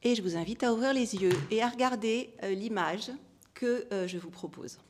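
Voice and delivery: calm, measured relaxation guidance; guided meditation. Real, not acted. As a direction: gently lead listeners inward, softening as you go. Guides audience through closing eyes. (méditation guidée, voix calme et posée)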